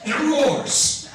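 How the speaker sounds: roars said high and slow; mock roar. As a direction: stretch out roars like a beast. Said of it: "grizzly celebrates".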